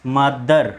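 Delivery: "मदर" with final र sounded; Hindi pronunciation. Shown as a demonstration. Teacher introducing the next word, "मदर" ending in a pronounced r. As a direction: say "मदर" Hindi-style with a clear r at the end. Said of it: "Hindi में बोलें".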